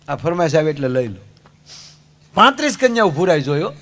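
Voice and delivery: ordinary talk, nothing marked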